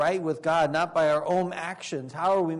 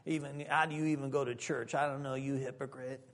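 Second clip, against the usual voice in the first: scornful devil; 3 semitones lower, 11 dB quieter than usual. Acted. Devil scolding Jeff, much softer and scornful. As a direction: sneer it down low and quiet like the devil. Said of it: "The devil will say".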